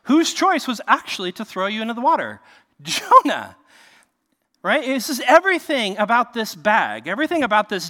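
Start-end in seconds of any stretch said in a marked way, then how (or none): 2.8-3.6 Jonah said louder, a firm final punch; emphatic answer. Acted. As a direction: land the name Jonah hard and loud. Call and answer, rhetorical.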